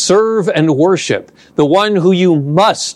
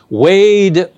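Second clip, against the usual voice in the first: proclaimed; 4 semitones higher than usual. Acted. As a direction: ring out Weighed like a verdict. Reading the writing on the wall.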